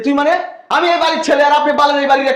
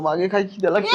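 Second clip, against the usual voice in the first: crying whine; 3 semitones lower, 3 dB quieter than usual. Acted. Hungry son whining to mother.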